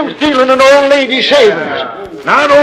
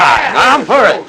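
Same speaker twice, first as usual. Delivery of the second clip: mob shout; slower than usual. Acted. Lynch mob agreeing.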